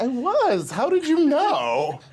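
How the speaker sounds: high, surprised quote. Retold or imitated. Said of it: "And I was like".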